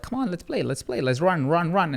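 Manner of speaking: lightly imitated toddler urging, starting high; eager two-year-old. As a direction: pester like an excited little kid. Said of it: "he was two years old at the time".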